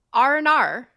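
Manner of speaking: letters blended into an Australian accent. Shown as a demonstration. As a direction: run together like an Australian "oh no". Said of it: "an Australian accent".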